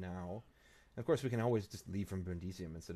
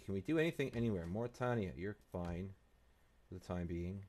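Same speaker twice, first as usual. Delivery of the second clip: ordinary delivery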